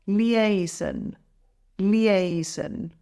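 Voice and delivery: "Liaison" with the middle syllable stressed; stress on second syllable. Shown as a demonstration. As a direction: model "Liaison" clearly, leaning on the second syllable. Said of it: "stress is on the second syllable".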